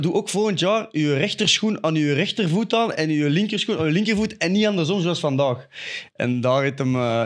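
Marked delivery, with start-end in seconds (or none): 0.0-5.7 retold mocking advice. Player taunting an opponent with a tip, mock-helpful.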